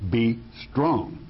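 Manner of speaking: "be strong" as two separate, weighted words; emphatic. Real, not acted. Preacher urging the listeners today, emphatic. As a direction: set "be" apart from "strong", firmly.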